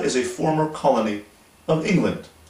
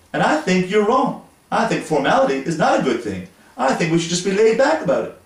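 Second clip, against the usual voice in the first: lightly voiced wife, higher and protesting; imitating wife; 4 semitones higher than usual. Wife defends laid-back soup serving to husband, lightly voiced, higher. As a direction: mildly play the wife defending her casual way. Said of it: "I imagine she would have said".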